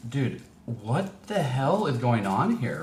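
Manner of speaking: slow, drawn-out disbelieving question; slow disbelief. Retold or imitated. Recalling arrival back in L A, slow stunned disbelief. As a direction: spell out each word as if you can't believe it. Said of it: "I'm like".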